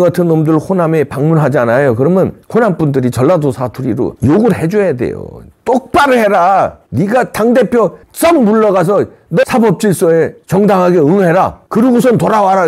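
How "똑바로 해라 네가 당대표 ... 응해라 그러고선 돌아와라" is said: Jeolla dialect scolding. Pretend. Honam locals scolding the visiting party leader, lightly Jeolla-flavoured. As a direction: order him off firmly, pitched up. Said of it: "이거 전라도 사투리로 막 해줘야 돼요".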